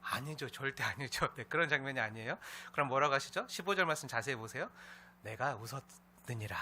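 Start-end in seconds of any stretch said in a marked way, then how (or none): 5.2-6.6 slow, lower, unhurried correction; gentle, smiling. Acted. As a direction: state it calmly, without reproach. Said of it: "편한 느낌으로 미소 지으면서". (편안하게 미소 머금은 말투)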